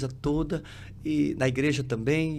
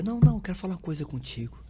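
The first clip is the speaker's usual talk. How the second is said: interrupting; 6 semitones higher, faster than usual. Retold or imitated. Landlord cutting him off in retold talk.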